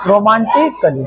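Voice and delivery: "रोमांटिकली" with short "klee" ending; silent A. Shown as a demonstration. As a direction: say "रोमांटिकली" for learners, A left silent. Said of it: "क्या पढ़ेंगे इसको?". ("रोमांटिकली" में ए बिना बोले)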